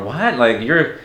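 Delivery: imitating a stranger's high, startled disbelief; mock surprise. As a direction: play the shocked stranger, pitch jumping up. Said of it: "they'll just say something like".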